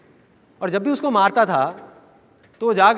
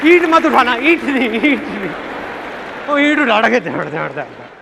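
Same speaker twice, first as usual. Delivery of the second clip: rising, louder urging then running; mock bystander; 3 semitones higher, 4 dB louder, slower than usual. Onlooker at a red light fight eggs them on, excited. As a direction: hype up the fight while pretending to stop it.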